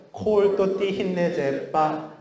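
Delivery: slow, high, bouncy staccato. Shown as a demonstration. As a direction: pop each syllable like a tap. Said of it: "따라해볼까요?".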